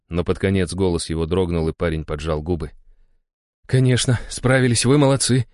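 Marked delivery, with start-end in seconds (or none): 3.7-5.5 high, happy murmuring father. A narrator's reading. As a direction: murmur it with warm pride. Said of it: "бормотал Иван".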